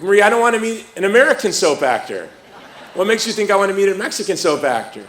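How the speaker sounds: laughing protest. Retold or imitated. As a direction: protest while cracking up. Retold protest to Marie, laughing.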